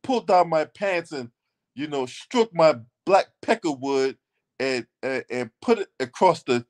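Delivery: imitating stilted politeness with mocking hesitation; mock polite request. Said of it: "We not saying no shit like that".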